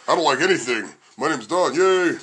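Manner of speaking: lightly mimicked grouch, downbeat; half-hearted yay from a mimicked friend; Don. Host teasing co-host who likes nothing, light impression. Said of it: "here's my impression of Don".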